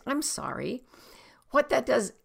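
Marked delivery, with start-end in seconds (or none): 0.0-0.8 gentle, sincere "I'm sorry"; sincere, lightly lifted apology; genuine apology. Shown as a demonstration. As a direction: apologise softly and earnestly. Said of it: "in a genuine voice".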